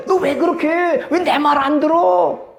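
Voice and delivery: high-pitched irritated scolding; acted irritation. Preacher mimics someone not getting their way, irritated high scolding. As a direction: scold with mock exasperation, pitch up. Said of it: "막 짜증이 나".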